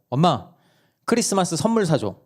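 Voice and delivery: a hint of a kid pestering mom; child asking. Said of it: "갑자기 엄마한테 이렇게 얘기를 하는 거예요". (엄마를 조르는 막내, 살짝 높은 아이 목소리)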